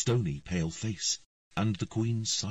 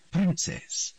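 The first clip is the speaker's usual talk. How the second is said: queen's cold command, higher and firm; cold authoritative; 11 semitones higher, 3 dB louder than usual. A narrator's reading. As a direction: address the girl like a subject, coolly. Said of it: "in a cold and authoritative voice".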